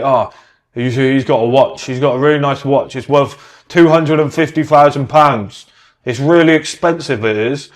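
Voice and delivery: lightly voiced gushing fan, slowed on the price; a hint of starstruck awe, half mocking; mock impressed admirer. Mocking people impressed by watches.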